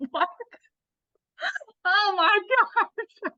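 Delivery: stunned, high laughing gasp of disbelief; oh my gosh, high and slow; surprised what. Retold or imitated. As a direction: squeal it out in shock. Shocked reaction to buyer's yes.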